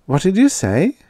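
ordinary delivery, nothing marked

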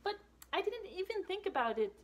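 high astonished little shadow; surprised shadow. Acted. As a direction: realise it aloud. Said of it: "says Little Shadow".

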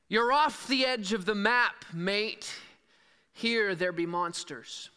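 put-on half-hearted pirate accent, slowed at the end; a weak try at a pirate accent on Barbossa's line. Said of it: "I don't have a really good pirate's accent".

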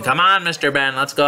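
mild mock whine of impatient kids; imitated groaning. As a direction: groan it lightly like pupils nagging. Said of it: "they were groaning at me".

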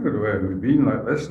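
lightly imitating a broad, lilting Scottish accent; sing-song Scottish accent. Shown as a demonstration. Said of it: "much more sort of sing-song".

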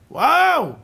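high, loud, drawn-out WOW; exclaimed wow. Shown as a demonstration. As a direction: cry out in amazement, voice soaring. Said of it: "לצעוק!".

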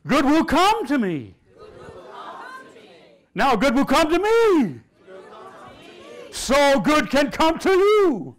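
preacher demanding a bolder response; shouted, drawn-out declaration. Shown as a demonstration. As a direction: roar it and stretch every word. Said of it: "you didn't say it like I said it".

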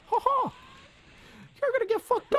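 villain taunt. Acted. Villain taunt in fight game.

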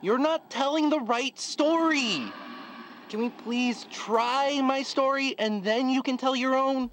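irritated. Acted. Storyteller scolding player.

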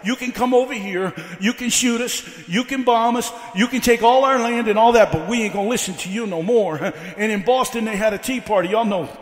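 rhythmic, driving sermon delivery; building preaching. Real, not acted. Preacher telling how a country stood up to the king, building preaching. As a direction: build the history into a rallying cry.

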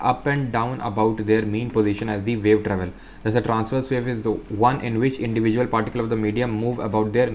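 slow, careful reading aloud; textbook reading. Acted. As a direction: read each phrase out slowly for students. Reads textbook text aloud. (धीमी, साफ़ किताबी पढ़ाई)

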